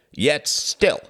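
loud, high heckling shout; angry cry. Acted. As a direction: shout down the speaker. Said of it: "cried a communist from the middle ranks".

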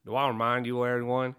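lightly put-on southern drawl; a weak stab at a Southern US accent; hint of a southern drawl on an even pitch; half-assed southern drawl. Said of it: "half-ass attempt at a southern drawl".

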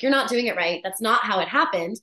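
lightly mimicked insistence; correcting. Snow White telling the dwarf it's wrong, correcting.

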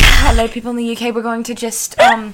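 playful put-on British accent. Podcast host teasing UK listeners, in a mock-British accent. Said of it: "we're gonna talk in your accent".

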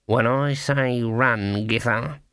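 slow, through gritted teeth. Acted. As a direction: force it out through clenched teeth. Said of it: "said between gritted teeth".

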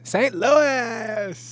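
high, loud, exaggerated St. Louis drawl; St. Louis dialect. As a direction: belt out the city name in hammed-up St. Louis dialect. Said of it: "they had a dialect there in Saint Louis".

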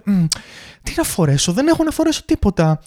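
high mock whine over clothes; mimicking women shoppers. Women facing full wardrobes, mock whiny complaint. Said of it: "και λέτε".

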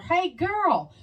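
high mimicked catcall; imitated kid's accent. Awkward kid calls out to her, mimicked high greeting. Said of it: "It's like his accent".

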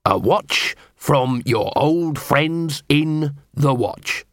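reading an inscription out word by word, slowly; reading aloud. A narrator's reading. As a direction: read it out slowly and deliberately. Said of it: "He read it aloud".

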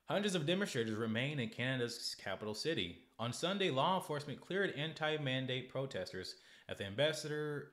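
steady read-aloud of an article; even news read. Acted. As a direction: read the report evenly.

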